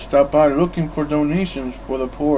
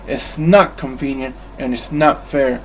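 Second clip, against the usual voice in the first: grumble. Acted. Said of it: "Scrooge grumbled".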